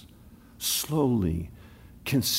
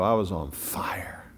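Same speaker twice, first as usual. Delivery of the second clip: hushed confession; 3 semitones lower, 3 dB quieter than usual. Acted. Imagined member's inner confession.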